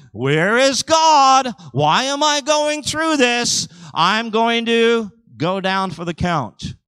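loud, high, slow cry of despair; mock despairing believer. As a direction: wail it out, slowly.

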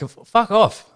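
slow, high exasperated curse; drawn-out annoyed brush-off; fed-up fuck off. Retold or imitated. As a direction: spit it out at the caller. Annoyed at scam caller.

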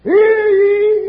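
loud high crier's call; town crier. Acted. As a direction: belt it out to the whole town. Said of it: "best auctioneer in seven counties".

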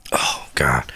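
low whispered oh god; whispered groan. Real, not acted. Sighing to himself before the doctor story, whispered. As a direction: breathe it out under your voice. Weary aside to self.

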